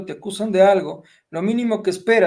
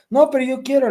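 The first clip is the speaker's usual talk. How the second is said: higher, louder imitated child protest; five-year-old nephew; 8 semitones higher, 5 dB louder than usual. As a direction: mimic a little boy insisting. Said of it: "mi sobrino de cinco años".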